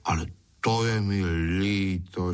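whiny begging; pleading. A narrator's reading. Loafer begs after losing his meals, pleading. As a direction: plead in a put-on pitiful voice. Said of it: "škemral darmošlap".

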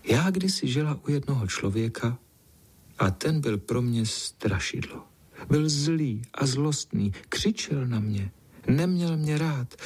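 a lonely house cat telling her sorrows; gentle sad cat. Acted. Golden cat tells the boy her sad past, lightly voiced.

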